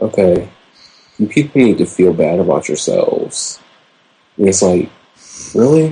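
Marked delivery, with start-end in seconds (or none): 0.0-3.6 low, calm, level voice. Retelling a wrestling promo: imitating Daniel Bryan speaking low and calm. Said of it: "he's in a calm voice".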